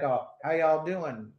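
slow, lightly imitated Southern drawl; Southern accent. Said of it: "total Southern accent".

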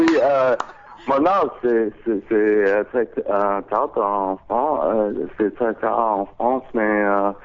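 low, hesitant French with pauses; French speech. Shown as a demonstration. Guest obliges host's request for sweet French, halting French. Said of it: "nice and sweet and warm and very Frenchy".

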